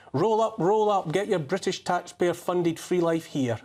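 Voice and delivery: a touch of the fairground barker calling people in; mock barker's call. Commentator sarcastically inviting newcomers in, mock barker's call.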